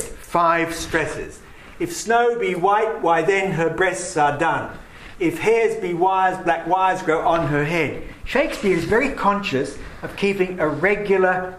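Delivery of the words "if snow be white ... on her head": metrical recital. Shown as a demonstration. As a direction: read the sonnet keeping strict meter. Reads sonnet with regular rhythm.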